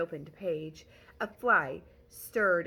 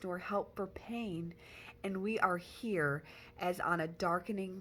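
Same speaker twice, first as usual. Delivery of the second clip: poem reading. Acted. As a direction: read the verse gravely and deliberately. Montag reads the poem aloud.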